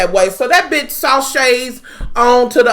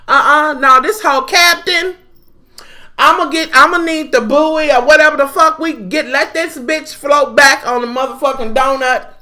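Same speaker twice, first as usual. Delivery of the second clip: imitating Jazzy; 3 semitones higher than usual. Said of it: "when she was like".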